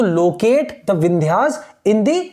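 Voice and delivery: slow, deliberate reading of the question. Shown as a demonstration. Teacher reading the map question aloud slowly to students. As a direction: read the question out slowly, word by word.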